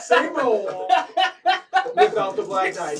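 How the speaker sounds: talking through laughter; loud and laughing through the words. Real, not acted. Laughing while giving instructions.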